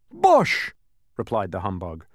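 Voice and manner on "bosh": very high, loud outburst; blustering dismissal. A narrator's reading. Humbug brushes off the bee, loud bluster. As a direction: dismiss it with one shout.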